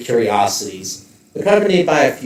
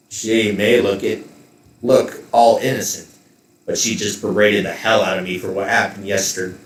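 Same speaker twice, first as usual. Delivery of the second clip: lightly voiced, lower gruff mercenary; grumbling soldier; 3 semitones lower than usual. Gabriel warning the players about his boss, mildly gruff. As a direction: complain sourly about being scolded.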